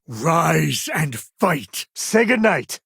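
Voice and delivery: rally the crew into the fight; battle cry. Acted. Companion rallying the captain in combat, battle cry.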